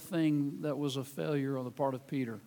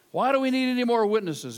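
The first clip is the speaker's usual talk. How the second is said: high priest demanding; 6 semitones higher, 6 dB louder than usual. Acted. High priest voiced in scripture reading.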